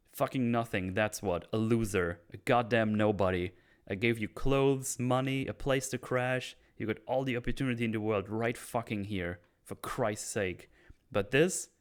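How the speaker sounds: acted rant with mild heat; angry tirade. Oz berates Vic for ingratitude, mildly angry. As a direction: berate him, understated anger. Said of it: "I like how angry Oz is here".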